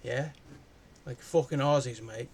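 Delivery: a hammed-up Aussie accent, mate and all; imitating a broad Australian bloke. Reviewer mocking the film's characters in a light Australian accent. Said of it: "so they all talk like this".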